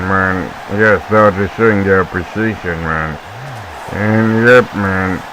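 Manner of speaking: mocking impression, lightly put on, every phrase sinking into "man"; Kenny. Commentator mocking his best friend on air, light imitation. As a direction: tease a friend with a lazy imitation. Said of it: "Please, you can stop mocking Kenny".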